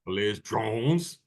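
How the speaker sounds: slow "Alleged drones?" with drones rising; mimicking hype, drones drawn out questioningly; sensationalized emphasis. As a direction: echo the newscaster, stretching drones. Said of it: "Watch how he sensationalizes it".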